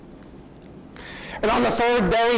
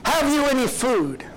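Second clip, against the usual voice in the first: higher-pitched call from the shore to a boat; Jesus calling out higher to the disciples' boat; 7 semitones higher than usual. Acted. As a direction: call out across the water, higher. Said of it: "he cries out to them".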